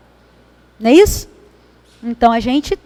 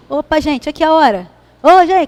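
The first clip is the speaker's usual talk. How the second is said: half-hearted hollering through the house; mild mock calling out; 3 semitones higher than usual. Narrator imitates her father calling family to worship, in a mild mock call. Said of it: "começa a gritar o povo dentro de casa".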